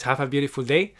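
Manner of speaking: ordinary talk, nothing marked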